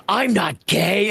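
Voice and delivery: high, slow, insistent denial; a hint of the character's stubborn denial; mock denial. Hero voiced denying being gay, mock insistent denial. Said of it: "he's like".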